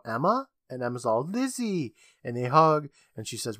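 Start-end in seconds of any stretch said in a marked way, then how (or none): 0.0-0.5 high, questioning call; lightly acted hopeful call. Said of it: "Lizzie calls out". 1.3-1.9 high, soft exclamation of recognition; hammed-up reunion squeal; mock joyful cry.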